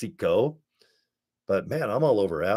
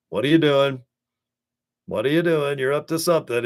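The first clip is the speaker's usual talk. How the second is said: nosy friend teasing; 5 semitones higher than usual. Retold or imitated. Friend teasing the grinning marketer, playful prying. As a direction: needle him like a suspicious friend.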